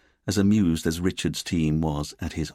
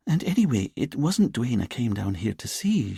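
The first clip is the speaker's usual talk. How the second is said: put-on lilting Edinburgh accent; 5 semitones higher than usual. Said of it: "in her lilting Edinburgh accent".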